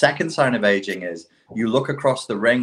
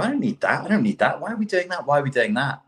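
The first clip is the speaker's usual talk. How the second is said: lightly voiced kid, pitched up; higher-pitched, mock-impatient protest; 6 semitones higher, faster than usual. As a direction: imitate a kid questioning pointless rules. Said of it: "When you're a kid, you look at stuff and you go".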